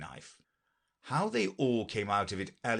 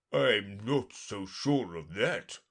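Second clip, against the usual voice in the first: unicorn voice; slower than usual. Acted. Unicorn voiced in read story.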